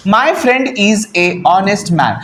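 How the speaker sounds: slow, word-by-word reading of the wrong sentence. Shown as a demonstration. Teacher reads the wrong sentence aloud to students, slowly. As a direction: read the faulty sentence out slowly for the class. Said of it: "यहाँ पे honest ह नहीं sound कर रहा".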